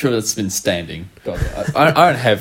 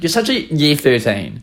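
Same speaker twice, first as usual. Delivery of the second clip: put-on slow, higher British-accented jibe; mocking British accent; 4 semitones higher than usual. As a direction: mimic a teasing friend with a British accent. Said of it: "Whenever I say something remotely unfunny".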